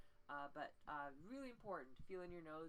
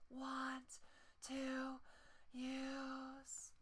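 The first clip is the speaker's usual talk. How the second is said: airy and loose, slightly higher; breathy voice; 6 semitones higher, much slower than usual. Shown as a demonstration. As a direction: release the tension into breath. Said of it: "next four words breathy".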